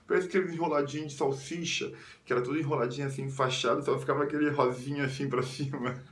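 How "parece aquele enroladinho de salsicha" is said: high, lightly mocking coo; teasing mother. Mother teasing her bandaged son, high mocking coo. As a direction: imitate a mother poking fun with baby talk. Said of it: "Minha mãe até zoava".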